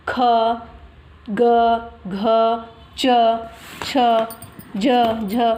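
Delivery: consonants recited one at a time; letter recitation. Shown as a demonstration. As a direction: say each letter alone, with a pause after it. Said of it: "उसका उच्चारण करेंगे".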